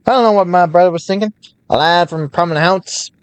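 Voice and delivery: lightly voiced old-time merchant; a hint of vintage radio announcer; 1930s newscaster voice.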